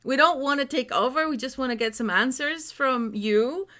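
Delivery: coaxing request. Retold or imitated. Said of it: "And then I said".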